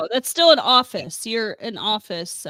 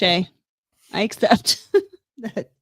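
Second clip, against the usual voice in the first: laughing; 4 dB louder, slower than usual. Real, not acted. Laughing through a concession.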